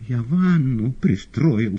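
slow high shout, teeth chattering; terrified cry. Acted. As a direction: scream it shaking with fear. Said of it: "стуча зубами, кричал". (кричит в ужасе, стуча зубами)

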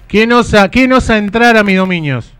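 voz de dragón más aguda, teatral; dragon voice. Pretend. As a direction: como bestia que guarda su guarida. Atiende la llamada como monstruo. (voz de dragón)

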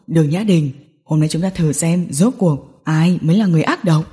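low male voice, contained fury; Hạ Cẩm Trình, furious and menacing. A narrator's reading. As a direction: accuse her in a low voice, building to a threat. (giọng nam trầm, căm giận, đe dọa)

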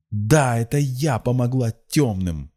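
high-pitched, defiant confession; frenzied cry. A narrator's reading. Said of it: "вскричала Рассана в выступлении".

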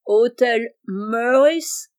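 put-on very slow, drawn-out English-accented French; solemn English accent. Monsieur Abel posing as an Englishman at the grocer's, solemn English accent. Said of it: "de même".

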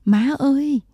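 put-on high, loud child's cry for mother; a frightened girl calling out. A narrator's reading. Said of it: "khóc thét gọi".

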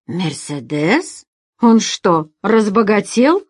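incredulous. Acted. Mustafa hears Alex rented a Mercedes, incredulous. Manager amazed at the rental news.

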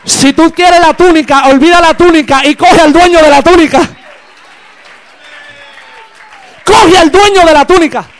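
forceful pulpit cry; full-force preaching. Real, not acted. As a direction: drive the appeal home to the congregation.

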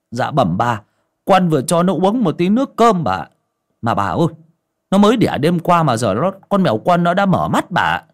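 bow and scrape as the servant; timid servant. Acted. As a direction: servant boy answers his master, fawning. Servant answers.

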